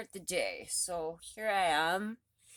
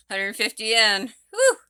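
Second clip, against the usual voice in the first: excited cheer; 4 semitones higher, 11 dB louder than usual. Real, not acted. Celebrating mid-workout.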